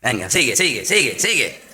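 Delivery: low, egging-on devil's voice; a hint of a sly devil; mocking devil. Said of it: "Y el diablo dice".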